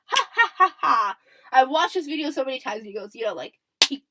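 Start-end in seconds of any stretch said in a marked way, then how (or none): 0.1-1.2 mock "ha ha ha", louder and higher; imitated lead laugh. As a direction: imitate a laugh with loud, separate ha's. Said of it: "a little bit of a lead laugh".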